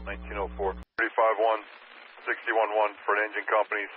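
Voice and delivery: dispatcher over the radio; crisp radio dispatch call; urgent firefighter radio. Real, not acted.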